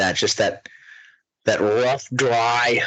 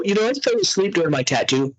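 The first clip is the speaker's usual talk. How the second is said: much higher, fast, whiny mimicry; mocking braggart; 8 semitones higher than usual. Mocking Becky's brag, high whiny voice. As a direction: mimic a show-off who claims she slept. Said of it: "can we also talk about people".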